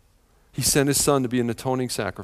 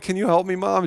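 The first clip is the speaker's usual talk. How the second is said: put-on a slightly higher, pleading little-boy voice; his younger self's voice; 4 semitones higher than usual. The speaker as a young kid begging his mom for help, lightly kid-voiced. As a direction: ask like the awkward kid you were. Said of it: "Like his younger self's".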